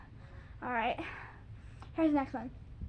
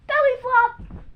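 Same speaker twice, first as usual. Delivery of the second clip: belly flop shouted high as you jump; excited call; 8 semitones higher, 8 dB louder, slower than usual. Shown as a demonstration. Kid demonstrating the jump shout for viewers. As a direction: launch it on the countdown. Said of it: "It goes like this".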